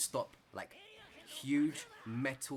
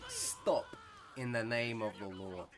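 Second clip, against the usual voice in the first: mock cop; slower than usual. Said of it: "I'm like".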